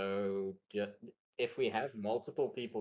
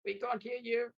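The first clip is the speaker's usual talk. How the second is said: high rasping creature voice layered with low; cold hissing layered whisper; 13 semitones higher, 4 dB louder than usual. Acted. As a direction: rasp it like a straw scarecrow spirit. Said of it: "very high, like, very low, rasping voice".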